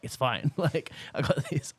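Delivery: lightly put-on guy's voice. Quoting the model turning down a jacket, lightly voiced as a guy. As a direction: quote her in a mock bloke's voice. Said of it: "I don't know why I did a guy's voice".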